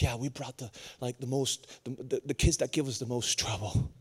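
soft, low imitation of Grace; quiet aside. Grace admitting to the visiting preacher, quiet aside.

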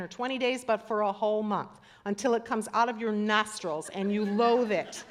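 a touch of stern anger, "will" leaned on; mildly angry God. Acted. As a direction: scold them like a fed-up father, understated. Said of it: "you cannot read this without a tone of voice".

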